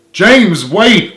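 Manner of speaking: high, loud pleading call. Acted. Richard calling after James as he runs off, pleading. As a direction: call after him, begging. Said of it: "Richard pleaded".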